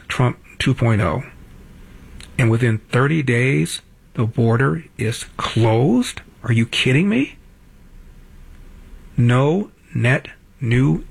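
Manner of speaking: mild mock disbelief, questions swinging up at the end; slow, deliberate show of being impressed; amazed admission. Radio host voicing what even a Trump hater should admit, amazed. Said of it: "you have to say something like".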